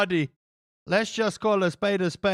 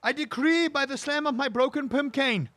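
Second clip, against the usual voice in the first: higher, pompous proclamation as a pretend king; higher hammed-up king's decree; mock royal decree; 6 semitones higher than usual. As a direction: proclaim it like a joke monarch banging his cane. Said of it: "if I had run the kingdom".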